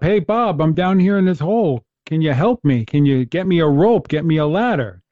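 hammed-up plea from below; mock screaming up. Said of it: "he's screaming up".

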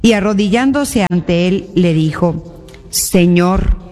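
measured scripture reading, phrase by phrase with pauses; solemn Gospel reading. Acted. Reads the Gospel aloud. (lectura solemne del Evangelio)

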